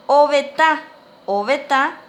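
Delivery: "obeta" with a stressed nasal last A; nasal final A. Shown as a demonstration. Teacher models a new word for pupils, nasal A. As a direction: land on the A of "obeta" through the nose. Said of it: "con acento nasal en la A".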